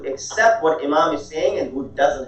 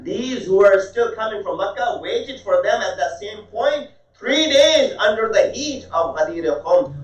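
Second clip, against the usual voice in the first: higher, insistent retort building in force; impassioned argument; 5 semitones higher than usual. Retold or imitated. Shia alim turns the complaint on his guest, impassioned and insistent. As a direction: press the point home with raised pitch. Acted argument, driving home Ghadir point.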